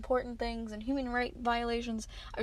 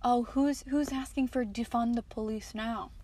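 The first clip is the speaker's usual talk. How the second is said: mock the gloating post; mocking sarcasm. Vlogger mocking a smug Facebook post, sarcastic. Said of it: "write this whole argumentative shit piece".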